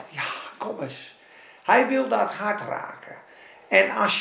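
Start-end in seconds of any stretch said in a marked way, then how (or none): 0.1-1.2 soft unvoiced whisper of invitation; hushed tender call. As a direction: breathe it gently. Soft repeat of God's call.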